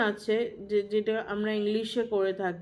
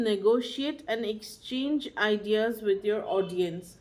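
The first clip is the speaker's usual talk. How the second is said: slow maxim; much slower than usual. Shown as a demonstration. Teacher stating a key maxim.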